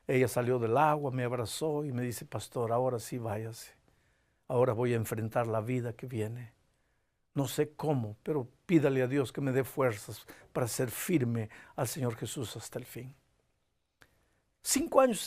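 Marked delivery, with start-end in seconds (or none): 2.3-13.1 soft, low, hushed plea for strength; a newly baptized wife whispering courage; tender farewell. Retold or imitated. Baptized wife tells the pastor goodbye, hushed and tender.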